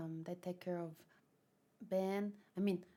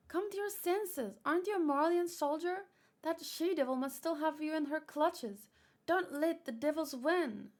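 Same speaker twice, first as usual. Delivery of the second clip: put-on higher, pleading young soldier voice; desperate young man; 7 semitones higher, 5 dB louder than usual. Young cook begging the soldier to stop, desperate. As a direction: urge him hard not to let devils win. Niccolo pleads against devils.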